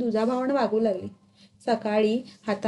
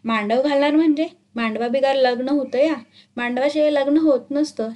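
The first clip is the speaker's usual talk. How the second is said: indignant, louder snap back; angry retort; 2 semitones higher, 4 dB louder than usual. Acted. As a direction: scold him for asking such a silly question. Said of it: "ती रागानं म्हण". (रागानं उत्तर)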